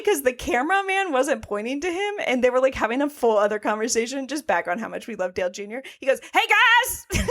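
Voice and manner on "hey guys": high, louder "Hey, guys!" with a laugh; calling for attention. Retold or imitated. Imitating Dale Junior interrupting the booth, high calling out. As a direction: wave the room down, apologetic. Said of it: "trying to get everybody's attention".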